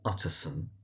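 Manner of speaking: Utterson, stressing UT, softly falling away; stress on first syllable. Shown as a demonstration. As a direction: hit the "Ut" in Utterson, then let it drop. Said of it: "emphasis on the ut".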